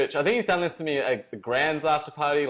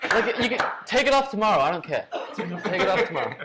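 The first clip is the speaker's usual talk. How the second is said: imitating Rich; 5 semitones higher than usual. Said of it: "he's like".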